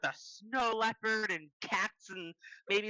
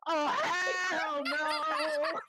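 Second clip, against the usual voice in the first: laughing shout; 4 semitones higher, much slower than usual. Real, not acted. Fleeing from wolf, laughing.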